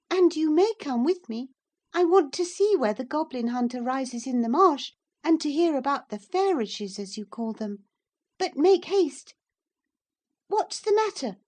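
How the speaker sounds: put-on high, loud girlish orders; a spoilt child bossing a servant; haughty young miss. A narrator's reading. Cathy orders Hareton to come along, high and bossy. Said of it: "Cathy commands the lad".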